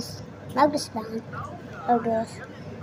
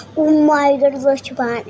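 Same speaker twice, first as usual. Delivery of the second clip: excited squeal; 6 dB louder than usual. Real, not acted. Gushing over cute item.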